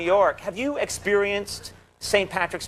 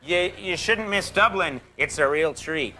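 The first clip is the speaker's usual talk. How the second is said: mock ad read; slower than usual. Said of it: "Let's do an ad for Dublin".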